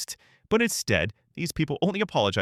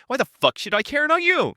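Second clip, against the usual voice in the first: higher-pitched, indignant question; angry retort; 3 dB louder than usual. Real, not acted. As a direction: fire the question back at her. Furious retort to Susie.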